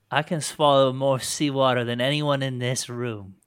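loud, emphatic pirate bragging; boastful pirate. Acted. Pirate captive answering a seawater question, loudly boastful. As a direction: boast it loudly to the whole room. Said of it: "She pauses at that and she says".

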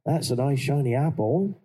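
light West Country farmer delivery; West Country lines. Retold or imitated. Actor quoting Sam's potato line in accent. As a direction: roll through it like a country cook. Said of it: "make it a little bit of my own".

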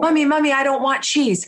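high-pitched mock toddler protest; imitating upset little girl. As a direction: mimic a small girl refusing. Daughter protests in story.

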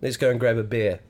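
New Zealand accent. Shown as a demonstration. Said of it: "What about when you say".

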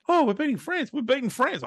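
excited cheering. Retold or imitated. Recalling watching the soccer, excitedly cheering. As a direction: cheer for a win you misread. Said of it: "So I was going".

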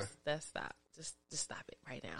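hushed embarrassed whisper. Real, not acted. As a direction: whisper it urgently.

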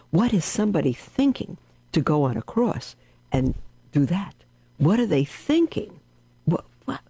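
high-pitched, baffled questioning; can't believe what they're hearing; incredulous. Retold or imitated. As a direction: re-enact utter bewilderment, pitch leaping up. Retelling own baffled challenge to evangelists.

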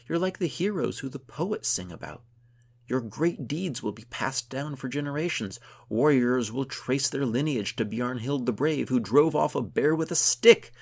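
high, loud heroic praise; giddy proclamation. A narrator's reading. Gunhild hails her friend as a legend, giddily. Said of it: "still a bit giddy".

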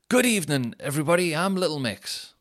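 hammed-up pop star welcoming the crowd; comic singer greeting an arena; mock pop star. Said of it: "I'd go on stage and I'd just go".

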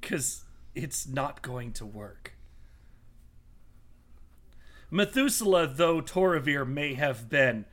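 lightly voiced haughty villain, slow and deliberate. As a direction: challenge them with slow, measured disdain. Villain addresses the party in character.

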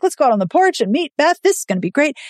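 lightly voiced excited servants; eager staff. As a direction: play the staff all rushing to the porch, lightly. Household eager to meet Beth.

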